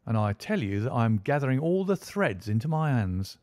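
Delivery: a proud detective boasting of his day's work; smug police inspector. Acted. Lestrade boasting to Holmes about his case, lightly voiced smug inspector.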